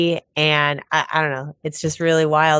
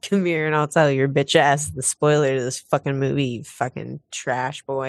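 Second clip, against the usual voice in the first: aggressive phone caller. Pretend. Mock spoiler caller threat.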